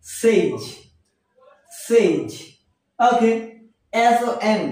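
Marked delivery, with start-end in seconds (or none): 0.1-0.6 সেইজ ending in a buzzed z; সেইজ said "seyz"; correct pronunciation. Shown as a demonstration. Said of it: "আসলে এর উচ্চারণ হবে". 1.9-2.3 সেইজ ending in a buzzed z; সেইজ said "seyz"; correct pronunciation. Shown as a demonstration. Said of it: "আসলে এর উচ্চারণ হবে".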